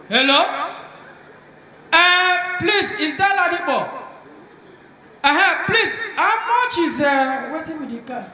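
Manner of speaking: loud phone call. Acted. Rich man shouting a price question to Ladipo.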